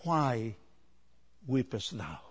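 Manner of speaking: soft, low angelic question; quiet, hushed-down scripture quote; angel's question. Acted. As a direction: ask it gently, voice dropped right down. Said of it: "one by the angel".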